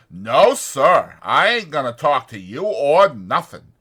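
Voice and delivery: loud, anxious simple man; Lenny's worried voice. A narrator's reading. Lenny frets to himself over the dead puppy, loud and anxious. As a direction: fret out loud about George finding out.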